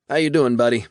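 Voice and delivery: a hearty demon booming through the speakerphone. A narrator's reading. Demon on the phone greeting his buddy, jovial and loud.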